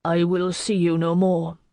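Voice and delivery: a touch of tremor; slightly unsteady, understated. A narrator's reading. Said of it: "the tremor back in his voice".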